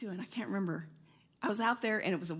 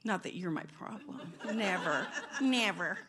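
softer, laughing aside; teasing laugh; 4 semitones lower, 5 dB quieter than usual. Real, not acted. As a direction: tease him gently.

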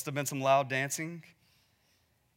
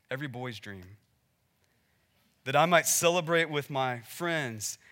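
bitter. Retold or imitated. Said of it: "Can't you just hear the bitterness in his voice".

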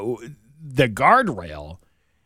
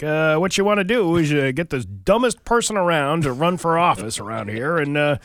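Chris Signoli; 3 semitones higher than usual. Acted. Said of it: "Chris Signoli is like".

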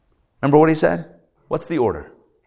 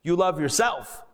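a little angry; 2 semitones higher, 4 dB quieter than usual. Retold or imitated. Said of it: "I came out a little angry".

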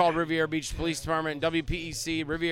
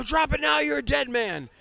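higher, louder mock warning; retold police command; 10 semitones higher, 3 dB louder, slower than usual. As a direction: play a cop ordering a suspect to drop it. Acted police officers at gunpoint.

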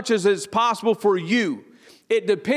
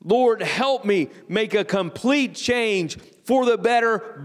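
unison prayer; slower than usual. Shown as a demonstration. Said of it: "Will you say it with me out loud?".

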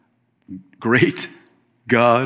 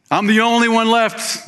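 mock whine, pitched much higher; whiny self-pity; 10 semitones higher than usual. Preacher mocking Elijah's pity party, high mock whine. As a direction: play the sulking prophet feeling sorry for himself. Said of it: "He's repeating himself".

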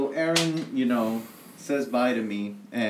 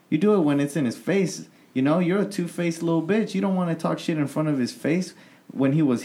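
heated retold rant; 4 semitones higher than usual. Retold rant at two-faced guy.

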